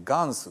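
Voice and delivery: put-on "ガンス" said as a quoted old dialect ending; old Hiroshima word. Shown as a demonstration. Explaining an old Hiroshima ending, "ガンス" said clearly. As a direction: set "ガンス" apart, said cleanly as an old dialect form. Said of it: "相当古い広島弁ですね".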